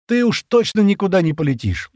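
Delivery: loud, high, emphatic veto; cutting refusal. A narrator's reading. Стэн forbids Шира to fly, cutting her off. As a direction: cut the idea off at once. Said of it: "отрезал Стэн".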